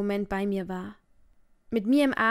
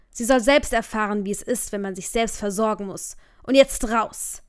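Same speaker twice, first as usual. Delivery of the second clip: angry shout; 6 dB louder than usual. Acted. Furious father throwing daughter out.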